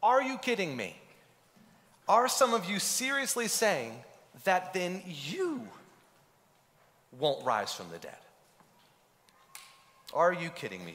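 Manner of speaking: voicing Paul's disbelief at the Corinthians; Paul exasperated. Paul scolding the Corinthians, incredulous. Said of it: "He's saying".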